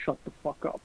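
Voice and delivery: breathy under-the-breath whisper, no voice; whispered embarrassed snap at a teasing friend; whispered shut the fuck up. Retold or imitated. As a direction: hiss shut the fuck up without voicing.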